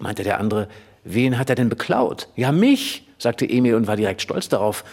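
lively read-aloud storytelling; story narration. A narrator's reading. Reader narrating Emil's chase through Berlin, lively read-aloud. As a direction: tell the boys' chase like a children's book. Reads Emil und die Detektive aloud.

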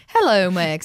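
stiff robot voice, falling end. Pretend. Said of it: "meine Roboterstimme".

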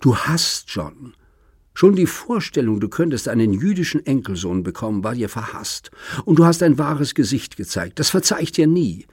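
daughter's voice climbing in rage; furious accusation. Acted. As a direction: spit the accusation at him. Daughter furiously accuses her father.

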